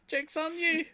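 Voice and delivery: put-on high, slow, laughing New Zealand accent; Kiwi accent. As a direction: echo "Joke's on you" in an exaggerated Kiwi twang. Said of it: "Your Kiwi accent's the best".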